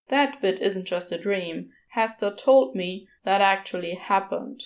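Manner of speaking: a lightly voiced uneasy demon; Crowley voice. Crowley recounts his dream.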